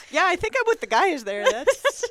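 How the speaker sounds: laughing through the words; giggling while agreeing. Real, not acted. Laughing reaction to a take.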